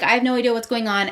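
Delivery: quick, mildly exasperated mock outburst; frustrated. Rave baffled by Vea, mildly frustrated. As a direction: rush it out, lightly frustrated. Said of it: "Vea's just as frustrated".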